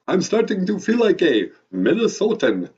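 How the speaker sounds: put-on high-pitched vampire accent; Count. Count joking with his Minnesota host, high vampire accent. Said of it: "your vampire accent".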